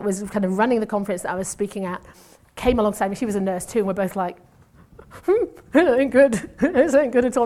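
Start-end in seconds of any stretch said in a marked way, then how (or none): 5.1-7.5 a hammed-up Estonian-ish English; broken English. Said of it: "doing that in kind of broken English, Estonian-ish".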